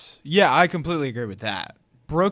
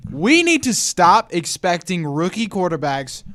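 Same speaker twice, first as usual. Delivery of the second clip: slow, firm, higher and louder; serious voice; 4 semitones higher, 4 dB louder, slower than usual. Pretend. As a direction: lay down the law, slowly. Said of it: "This is my serious voice".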